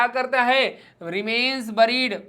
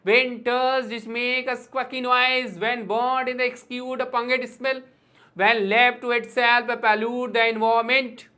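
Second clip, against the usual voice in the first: slow, measured verse reading; demonstrating how to read a poem; rhythmic poem recitation; much slower than usual. Shown as a demonstration. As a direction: recite it slowly, in rhythm, line by line. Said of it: "ऐसे पढ़ते हैं".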